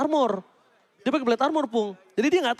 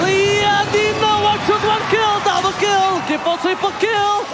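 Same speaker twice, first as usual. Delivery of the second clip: loud, high hype call; fighting game announcer; 7 semitones higher, 5 dB louder, slower than usual. Real, not acted. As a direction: roar out the kill streak like an arena announcer. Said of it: "caster hypes kill streak".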